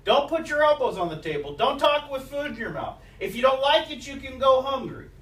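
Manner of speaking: a hint of a stern mother at the dinner table; mock scolding mom. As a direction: snap out mom's old table rules.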